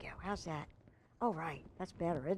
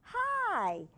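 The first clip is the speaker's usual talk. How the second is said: shy hi; 12 semitones higher than usual. A narrator's reading. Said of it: "She waved shyly".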